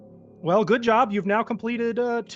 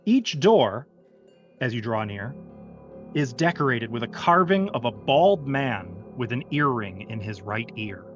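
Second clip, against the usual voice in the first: game master narration. Acted. Game master sets the scene.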